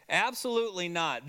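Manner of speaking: firm, stressed "Absolutely"; emphatic denial. Retold or imitated. Teacher restates the denial for the class, emphatic. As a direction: repeat the denial with "Absolutely" leaned on. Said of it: "this emphatic de-, denial".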